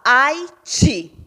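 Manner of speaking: Haiti split in syllables, the final "ti" hit firmly; stressed last syllable. Shown as a demonstration. Teacher showing pupils the tonic last syllable, stressed "Haiti". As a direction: punch the end of "Haiti". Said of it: "o acento tônico está na última sílaba".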